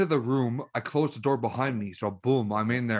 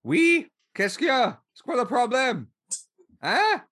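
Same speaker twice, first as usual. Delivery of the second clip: high French voice; 9 semitones higher than usual. Pretend. Teasing put-on French voice.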